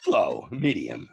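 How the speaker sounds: slow, measured Walken cadence; deliberate imitation of the actor; Walken impression. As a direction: lay it out slowly like Walken. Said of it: "He was like".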